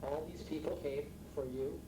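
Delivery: a hint of dad's dry charm; dad's teasing charm. Son quoting his father at the first banquet, mild teasing. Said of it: "my dad, in his inimitable charm".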